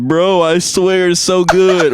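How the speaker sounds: drawn-out, slow plea; mock tearful gushing. Reading cousin's message with crying emojis, mock tearful. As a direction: gush slowly as if moved to tears. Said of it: "with crying emojis".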